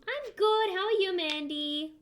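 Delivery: high, loud burst that cracks. Real, not acted. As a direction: greet brightly, voice jumping up and cracking. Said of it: "much louder crack than I was expecting".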